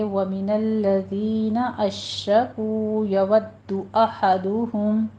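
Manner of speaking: slow measured recitation of the verse; Quranic recitation. Shown as a demonstration. Tajweed teacher reciting the verse for her students. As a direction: recite it carefully, joining the words. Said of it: "یودو میں ہونٹ گول کیجیے".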